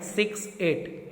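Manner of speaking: "सिक्स एट" slowly, as two separate digits. Shown as a demonstration. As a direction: give "सिक्स" and "एट" each its own slow beat. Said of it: "एक एक digit को पढ़ेंगे". ("सिक्स एट" धीरे, एक-एक अंक अलग)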